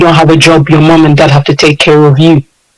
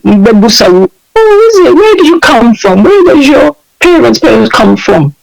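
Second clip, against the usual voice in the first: mock English accent, much higher and slow; 5 semitones higher, slower than usual. Imitating an English classmate asking her origin, in an English accent. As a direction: put on the English schoolmate's accent, drawn out. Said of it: "Put in the accent".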